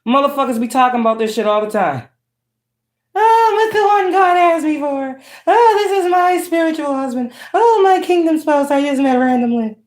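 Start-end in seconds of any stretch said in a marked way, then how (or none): 3.1-9.8 mocking gushy boaster. Reader mimicking people who boast of a kingdom spouse, mocking. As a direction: gush it sarcastically in a put-on high voice.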